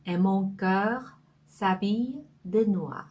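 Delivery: the whole line "Et mon cœur s'habille de noir." read in one slow connected flow; slow full reading. Shown as a demonstration. Teacher reading the full French sentence aloud, slow and whole. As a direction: read it through slowly in one breath. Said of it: "자, 이 문장은요".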